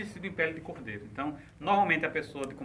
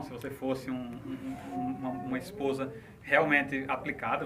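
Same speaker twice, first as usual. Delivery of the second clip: low, softened guilt-tripping; acted manipulative pleading, mostly low-pitched; emotional blackmail; 4 semitones lower, 4 dB quieter than usual. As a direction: lay on a subdued, understated guilt trip. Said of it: "Chantagem emocional".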